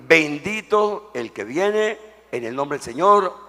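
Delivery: slow, loud joyful acclamation; acclaiming crowd. Acted. Preacher reading the crowd's acclaim, slow loud cry. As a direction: cry it out like the crowd hailing the king. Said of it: "aclamaba diciendo".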